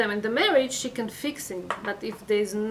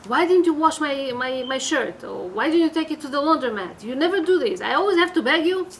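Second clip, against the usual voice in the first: acted nagging complaint, raised voice; mildly cross, higher and louder reproach; upset husband; 4 semitones higher, 4 dB louder than usual. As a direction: play an upset spouse complaining. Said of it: "you see that he's already upset".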